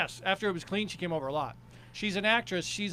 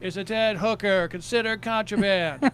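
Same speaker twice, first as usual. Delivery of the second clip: punchline in a louder sing-song; sing-songy stage character; 2 semitones higher, 5 dB louder than usual. Shown as a demonstration. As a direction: land the punchline in the character's lilt. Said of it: "perform it sing-songy like my character".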